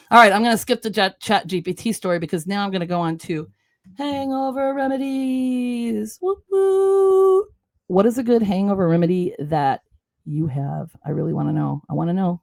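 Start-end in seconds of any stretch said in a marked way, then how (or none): 4.0-7.5 hyped announcement. Acted. Announcing the next topic.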